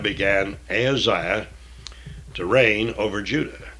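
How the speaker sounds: measured, solemn Bible reading; scripture reading. Acted. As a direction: read the King James text with weight.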